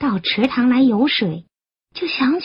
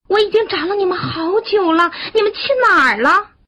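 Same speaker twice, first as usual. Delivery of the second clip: high, urgent mother's voice; loud calling; 8 semitones higher, faster than usual. A narrator's reading. Frog who searched long for her children, high urgent calling. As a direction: call out, speeding up into the question. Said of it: "大声地喊".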